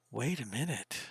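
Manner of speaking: very soft, low aside; hushed realization. Real, not acted. Game master pausing over Harvey's headshot, hushed realization.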